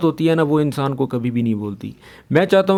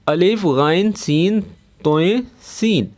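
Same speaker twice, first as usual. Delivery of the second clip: slow letter-by-letter अलिफ गाइन सीन; spelling out letters; slower than usual. Shown as a demonstration. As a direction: spell it out slowly for students. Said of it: "spelling letters". (अक्षर धीरे-धीरे गिनाते हुए)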